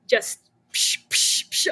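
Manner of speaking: unvoiced psh psh of the air press; press noise. Founder describing her press, imitating its hiss. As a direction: mimic the press hissing down.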